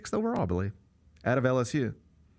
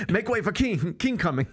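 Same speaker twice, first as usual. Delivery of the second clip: mock French cop accent; 4 semitones higher than usual. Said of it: "I can't do the accent".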